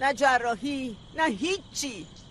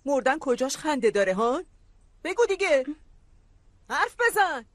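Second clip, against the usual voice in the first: angry demand. Acted. Heated quarrel over a death remark.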